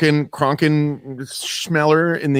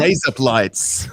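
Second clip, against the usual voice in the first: Australian-sounding razor blades; slower than usual. Shown as a demonstration. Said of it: "for an Australian".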